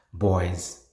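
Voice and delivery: "boys" with its end S clearly voiced; final S sounded. Shown as a demonstration. Teacher showing learners an S-ending word, clearly sounded. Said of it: "like the words ending with S".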